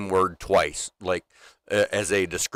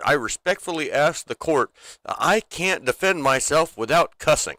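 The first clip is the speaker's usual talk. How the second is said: higher, earnest mock plea; Ricky; 4 semitones higher than usual. TV character pleading with the court, mock-earnest. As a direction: plead the case in an imitated voice. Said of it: "He's like".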